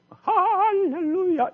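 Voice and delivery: high, slow, drawn-out rousing cry; rousing hallelujah. Shown as a demonstration. Conductor rousing the choir, a soaring drawn-out shout. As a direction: lift the choir with a soaring call. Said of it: "이렇게 나오거든요".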